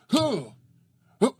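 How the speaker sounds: high effort grunt, acted; exaggerated little grunts; mock punching grunt. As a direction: imitate the effort of throwing a punch. Acting out cop's weak punch.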